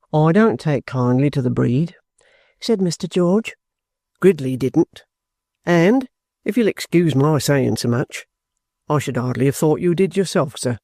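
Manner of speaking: lightly voiced soldier, low and respectful; blunt trooper. Trooper tells the guardian he dislikes lawyers, blunt. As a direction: state the objection bluntly, with courtesy. George's dialogue in the narration.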